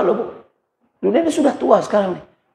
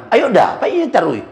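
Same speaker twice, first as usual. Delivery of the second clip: mock Padang wife; 4 semitones higher than usual. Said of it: "Katanya Padang".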